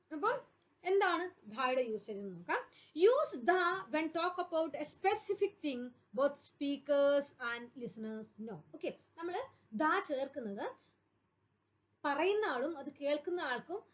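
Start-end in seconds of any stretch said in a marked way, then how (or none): 3.0-8.6 very slow, words spaced out; slow dictation. Shown as a demonstration. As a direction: read the rule so students can write it. Teacher reads rule for copying.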